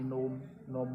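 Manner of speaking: "नोम" starting straight on the n; silent G. Shown as a demonstration. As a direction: say "नोम" with no g sound at the front. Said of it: "pronunciation कहीं भी नहीं हो रहा है". ("नोम" में जी silent)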